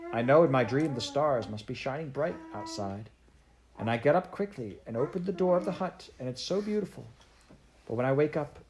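a hint of a wistful, homesick girl; lightly voiced homesick child. Heidi telling the doctor her dream of Grandfather, gently wistful.

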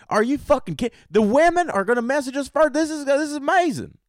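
very high, hammed-up squeal of disbelief; over-the-top excitement. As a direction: lose it over the amazing news. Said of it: "Women were excited".

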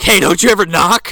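loud, high put-on outrage; indignant yell. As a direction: snap at the intruder. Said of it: "He's like".

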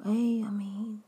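a hint of a two-faced friend's fake concern; fake pious friend. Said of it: "they'll let you know".

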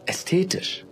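high, airy, affected ästhetisch; ästhetisch lifted high like a proud mother; mother savoring ästhetisch; mother's refined word. Acted. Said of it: "Oder wie Mutter sagte".

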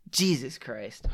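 hushed, voiceless exclamation of dismay; under the breath, appalled; appalled whisper. Real, not acted. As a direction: whisper it in disbelief. Appalled reaction to war crimes.

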